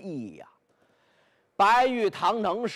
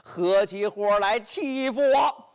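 aggrieved rant; 4 semitones higher than usual. Acted. Bai Yutang rails at his sworn brothers.

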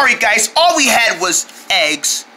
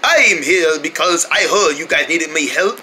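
put-on British accent; 3 semitones lower than usual. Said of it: "British accent".

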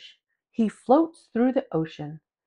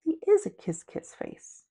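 much higher, playful squeak; giddy high voice; 7 semitones higher, slower than usual. A narrator's reading. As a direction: squeal it with delight. Giddy closing line.

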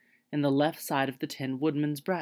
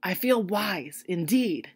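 earnest; 3 semitones higher, slower than usual. A narrator's reading. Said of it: "he answered earnestly".

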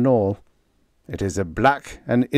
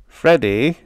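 calling out; 4 semitones higher, 6 dB louder than usual. A narrator's reading. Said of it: "this cop said".

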